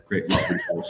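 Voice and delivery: silly high voice. Acted. Jokey aside, much higher voice.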